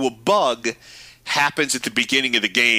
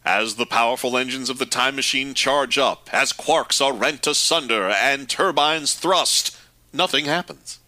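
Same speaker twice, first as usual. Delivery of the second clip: mock-grand reading, slowing and rising as it builds; dramatic recitation; 2 semitones higher than usual. Co-host reciting the show's sign-off, mock-grand. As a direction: build the grandeur, stretching the words.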